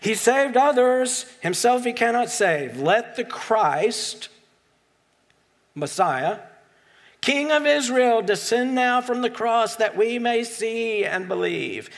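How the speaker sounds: a hint of a Jewish accent, hammed-up as a mocking priest; Jewish accent, self-mocking. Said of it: "this is my best Jewish accent".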